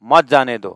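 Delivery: falling second clause, मत leading; comma after रोको. Shown as a demonstration. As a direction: run "मत जाने दो" together after the break. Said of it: "comma".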